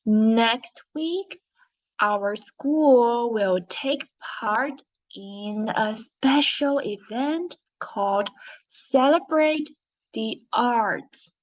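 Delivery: slow, deliberate reading for pupils to follow; teacher leading a class read-along, word by word; read-along story narration. Shown as a demonstration. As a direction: read aloud with measured, expressive phrasing. Reads the story aloud with class.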